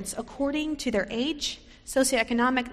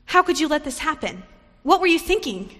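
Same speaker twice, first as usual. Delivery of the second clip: higher, louder scolding that builds; a preacher voicing a shocked, scolding kinswoman; 4 semitones higher, 6 dB louder than usual. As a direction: demand answers in shocked blame. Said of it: "scolded her".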